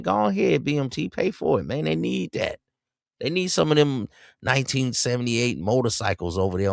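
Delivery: sarcastic urging, voice jumped way up; mock encouragement. Host sarcastically urges players to spend, in a high mocking voice. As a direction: cheer them on with fake delight, up high.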